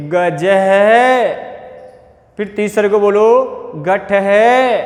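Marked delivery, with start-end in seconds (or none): 0.1-1.3 छात्र है drawn out, visarga breathed as है; slow visarga reading. Shown as a demonstration. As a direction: model it slowly. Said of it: "ऐसे आगे वाले का बोलेंगे".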